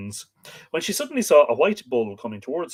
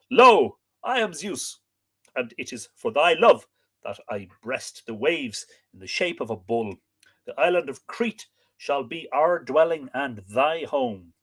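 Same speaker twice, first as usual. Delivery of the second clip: lightly voiced Zeus. Zeus revealing himself to Europa, lightly voiced. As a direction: announce yourself as a god, a hint of grandeur. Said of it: "answered the bull god".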